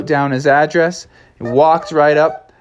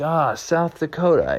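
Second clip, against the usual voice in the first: puzzled official; 4 semitones higher, 5 dB quieter than usual. Acted. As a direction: take it in like a polite clerk. Officials repeat horse's answer.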